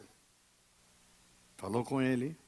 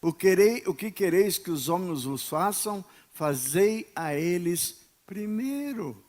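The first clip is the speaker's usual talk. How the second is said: preached scripture; 2 semitones higher, 4 dB louder than usual. Acted. Citação bíblica pregada.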